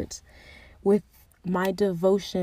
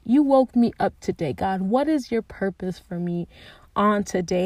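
eager prayer; 4 dB louder than usual. Retold or imitated. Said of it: "Like, not a".

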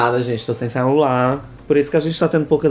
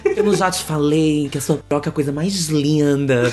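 put-on Rio accent; 3 semitones higher than usual. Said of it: "Tu gosta do sotaque carioca? Pois faz aí".

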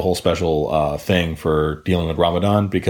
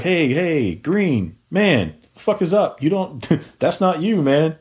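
high-pitched imitation of a friend intervening; acted-out, incredulous pleading; concerned inmate; 8 semitones higher, slower than usual. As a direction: talk him down in disbelief. Inmates who knew him intervene.

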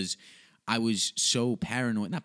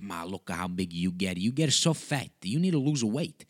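Nona. Acted. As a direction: scold like an old-country grandma, accented English. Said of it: "you go see Nona, and she's like".

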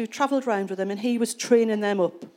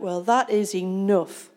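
slow, louder defiant outburst; fed up; 3 dB louder than usual. Retold or imitated. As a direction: spit out the words of someone quitting on God. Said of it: "people in that situation would be like".

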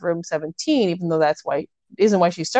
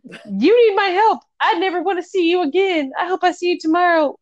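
mock lovesick banter; 11 semitones higher than usual. Mocking the couple's moonlight banter, high and swooning. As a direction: ham up the lovestruck back-and-forth. Voicing both lovers' banter.

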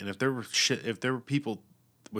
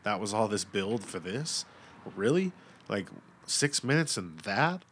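stunned pissed. Retold or imitated. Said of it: "stunned pissed".

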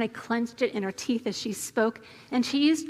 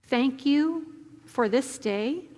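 prayer. Real, not acted. Leads the congregation in prayer.

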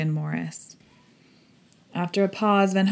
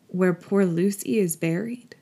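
amazed. A narrator's reading. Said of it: "in an amazed sort of way".

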